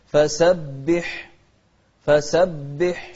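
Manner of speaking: فسبح ending on a breathy, whispered ح. Shown as a demonstration. Teacher demonstrating the whispered ha. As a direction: let the breath run out on the ح of فسبح. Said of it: "الحاء من أحرف الهمس".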